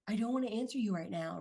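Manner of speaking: imitating a defensive retort; combative snap. Partner snapping back at an angry Aries. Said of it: "If you come at them like".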